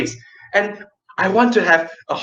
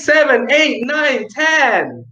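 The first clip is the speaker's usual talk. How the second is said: louder as the count ends; 6 semitones higher, slower than usual. Shown as a demonstration. Teacher shows the loud end of a volume count. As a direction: build up to a loud finish. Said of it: "You go soft or loud".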